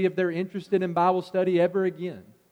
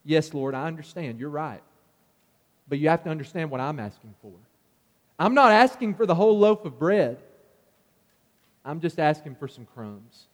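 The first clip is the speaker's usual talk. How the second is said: humble plea. Retold or imitated. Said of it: "she responds with great humility".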